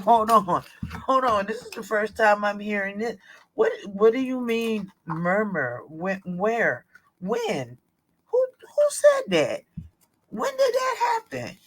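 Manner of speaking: acting out the shock of hearing news for the first time; retold alarm building to a squeal; alarmed disbelief. Retelling her alarmed reaction.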